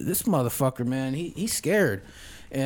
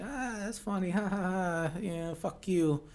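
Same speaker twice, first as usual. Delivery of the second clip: higher, softer retold laugh; mock dismissive laughing; 4 semitones higher, 8 dB quieter than usual. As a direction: act out laughing off a warning. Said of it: "We all start laughing".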